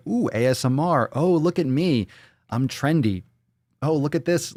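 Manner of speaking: mocking trend-followers. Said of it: "So people use this as".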